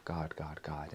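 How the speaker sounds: whisper to yourself. Shown as a demonstration. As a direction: murmur it to yourself. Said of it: "See if you can whisper to yourself".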